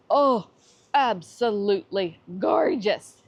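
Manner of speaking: delighted gush. Real, not acted. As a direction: swoon over the flowers. Gushing over camellia flowers.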